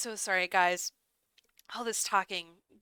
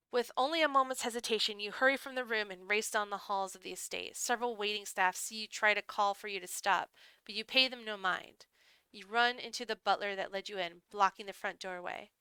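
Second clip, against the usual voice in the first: measured, hushed-drama storytelling; story narration. A narrator's reading. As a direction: read it like a dark visual novel. Reads the game's story aloud.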